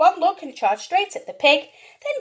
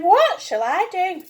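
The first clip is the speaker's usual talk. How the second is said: put-on distressed old lady. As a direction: wail it out, worried. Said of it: "The little old lady cried".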